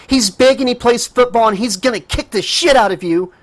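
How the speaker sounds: high, loud desperate scream. Acted. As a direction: yell the threat with all you have. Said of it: "she screamed as loud as she could".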